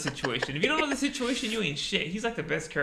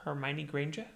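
mock British, lilting up at the end; light put-on British accent; 3 dB quieter than usual. Friend trying Harry Potter names, mock British accent. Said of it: "like, a British accent".

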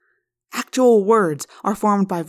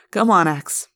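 smiling; slower than usual. Acted. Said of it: "Prince Jake said, smiling".

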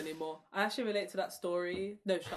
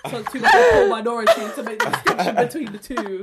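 sarcastic apology; 3 semitones higher, 13 dB louder than usual. Acted. Mock apology, laughing.

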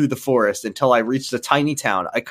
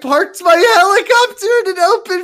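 hammed-up reading; 6 dB louder than usual. Hammed-up reading of fan fiction.

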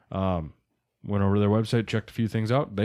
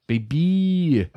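hyped; 7 semitones higher, 5 dB louder than usual. Real, not acted. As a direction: cheer it out. Hyped about ten K prize.

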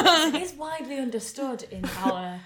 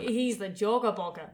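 put-on Australian accent. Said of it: "say that in an Australian accent".

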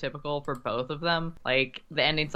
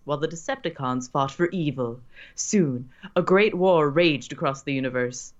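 narrator voice. Acted. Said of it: "your best narrator voice".

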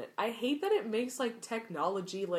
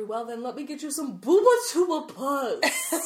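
mock Madame Pomfrey, laughing; 6 semitones higher, 9 dB louder than usual. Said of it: "That's exactly how she says it".

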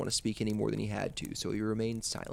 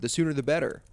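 defiant shout; 5 semitones higher, 5 dB louder than usual. Acted. Boy shouting through door.

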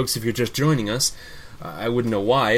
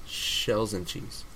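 "Shells and cheese" dragged out, syllable by syllable; slow careful repeat; 3 semitones lower, 6 dB quieter, much slower than usual. Shown as a demonstration. Host slowly repeating the guest's name. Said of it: "go slow".

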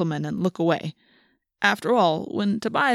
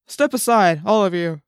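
firm, louder opening that drops in pitch; policeman's order; 4 dB louder than usual. A narrator's reading. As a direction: order them aside like a cop. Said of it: "he ordered".

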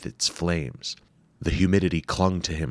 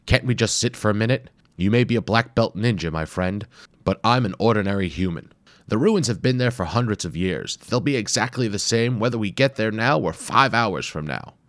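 higher, louder complaining scholar; grumpy tired professor; 4 semitones higher, 4 dB louder than usual. Acted. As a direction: plead for a rest, exasperated. Wimple begs for rest.

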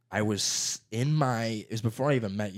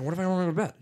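put-on defiant kid; 7 semitones higher, much faster than usual. Kid self quoted defiant.

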